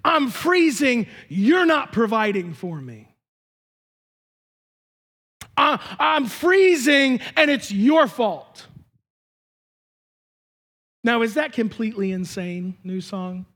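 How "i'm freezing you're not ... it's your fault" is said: slower, accusing take on I'm freezing; accusing version. Retold or imitated. Husband hears wife's complaint as blame, slow and accusing. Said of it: "what he perceived to hear was".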